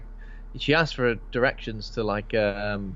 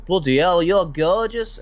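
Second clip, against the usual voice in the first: mock smitten bloke; 7 semitones higher, 5 dB louder, slower than usual. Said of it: "they're like".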